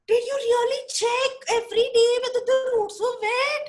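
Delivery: high, fast, disbelieving question; shocked Viru. Acted. Viru questions the monkeys, shocked and fast. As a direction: gasp it out in disbelief.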